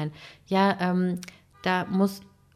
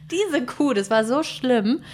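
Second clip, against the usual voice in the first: indignant; 5 semitones higher, slower than usual. Real, not acted. Venting about the clerk.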